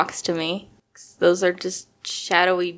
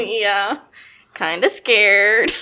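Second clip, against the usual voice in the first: nervous laugh; much slower than usual. Real, not acted. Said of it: "I can tell by the nervous laughter".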